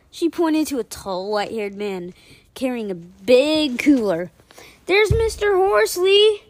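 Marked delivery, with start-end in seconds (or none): 4.9-6.4 high, slow eager call; excited. Acted. Girl spotting the bus driver, excited call. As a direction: point him out with glee. Excited kid spots teacher.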